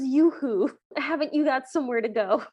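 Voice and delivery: yoo-hoo call, lightly imitated; lightly voiced ghost mom. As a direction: imitate a mother calling for attention. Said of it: "She goes".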